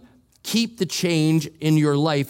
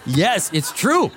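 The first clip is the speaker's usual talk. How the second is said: laughing; 5 semitones higher, 3 dB louder, slower than usual. Real, not acted. Laughing agreement with audience.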